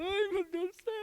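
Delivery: high, tearful wail; mock weeping cry; imitating crying wife. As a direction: wail it like she's sobbing.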